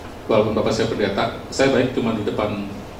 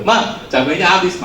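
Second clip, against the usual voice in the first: higher, drawn-out mock call to mum; retold cover-story call, pitched up and slow; child calling to mum; 6 semitones higher, slower than usual. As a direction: imitate a kid slowly reporting to mum.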